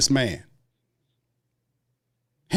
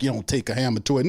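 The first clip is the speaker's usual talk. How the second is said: mocking quote; faster than usual. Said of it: "Talking that screwdriver talk".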